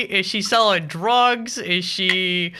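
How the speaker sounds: imagined suspicious mom. Retold or imitated. Host voicing the mother wondering about the money, slow and puzzled. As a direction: drag it out like a baffled parent.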